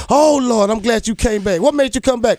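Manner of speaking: lightly voiced grateful teller; relieved bank teller. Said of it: "she looked, she said".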